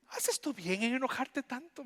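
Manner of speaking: high, gentle questioning God. Acted. Preacher re-voicing God's question to Jonah.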